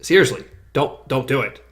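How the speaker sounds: low, hushed and grave retelling; quiet serious plea. Retold or imitated. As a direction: drop soft and low, dead serious. Grave plea at cliff edge, retold.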